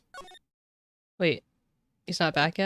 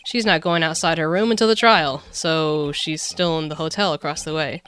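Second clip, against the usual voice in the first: gruff detective voice; 3 dB louder than usual. Acted. Voicing Gumshoe, laughing.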